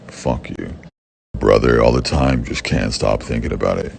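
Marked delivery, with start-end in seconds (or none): none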